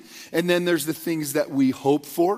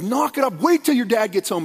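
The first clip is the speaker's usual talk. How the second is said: higher, firmer mock threat from mom; stern mom; 4 semitones higher, 3 dB louder than usual. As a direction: lay down the law like an exasperated mother. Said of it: "she'd try that power approach".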